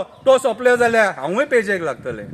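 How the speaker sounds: full-voiced recited line; declaimed verse. Siolim wife worries for her livelihood, declaimed. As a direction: declaim it, falling at the end. First take of repeated verse.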